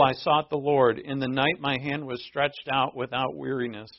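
ordinary talk

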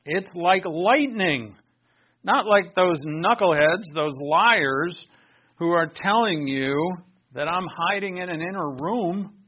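loud, forceful divine declaration; preacher thundering as the Lord; Lord Jesus. Acted. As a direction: proclaim it hard, stretching the key words. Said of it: "says the Lord Jesus".

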